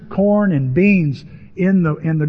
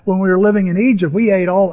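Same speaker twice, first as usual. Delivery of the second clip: mock complaint, pitched up; complaining; 3 semitones higher than usual. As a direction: grumble like an aggrieved crowd. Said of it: "They, they complain".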